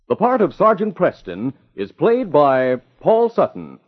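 dramatic radio announcer voice; old radio drama narrator. Acted. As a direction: build suspense for next week's episode. Announcer closing the episode.

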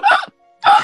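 imitating choking on a taco; mock choking gasps. Choking on a taco at the stand, mock gasps. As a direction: gasp like the meat is stuck. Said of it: "yo empiezo".

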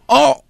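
short pained oh, held back; stifled yelp. Acted. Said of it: "Ya no quería gritar mucho". (quejido de dolor contenido)

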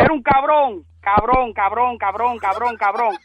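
heated, repeated insults hurled back; angry name-calling. Real, not acted. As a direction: spit out cabrón over and over. Victim furious at prank caller.

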